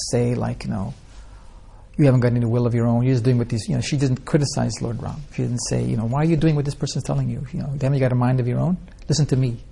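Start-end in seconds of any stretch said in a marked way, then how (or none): 2.0-3.7 louder, fast, mock-scolding reproach; rude and scolding. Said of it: "she didn't speak that way at all". 6.1-9.6 a touch of mock bossy demand, fast. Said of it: "she didn't speak that way at all".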